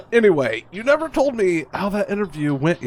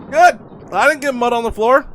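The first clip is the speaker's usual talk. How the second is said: loud; 4 semitones higher, 4 dB louder than usual. Acted. Child relieved, loud.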